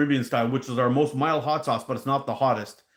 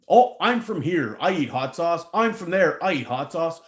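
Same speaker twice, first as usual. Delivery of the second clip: mocking boastful customers; 4 semitones higher than usual. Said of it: "we get these guys".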